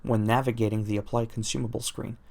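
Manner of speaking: usual speaking voice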